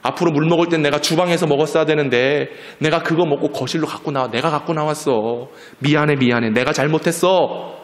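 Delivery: lightly voiced, fussing grandma; apologetic grandmother. Grandmother taking blame for the spilt water, gently apologetic. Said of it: "그 얘기를 들은 할머니가요".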